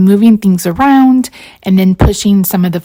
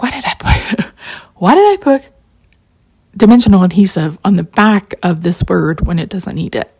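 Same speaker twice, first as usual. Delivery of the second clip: self-scolding. Retold or imitated. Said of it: "but I was like".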